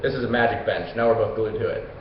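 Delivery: low, resigned disbelief; dismayed dude. Retold or imitated. Stuck friend to Theseus on the bench, resigned dismay. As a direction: sink into a low, weary groan of realization. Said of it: "the dude's like".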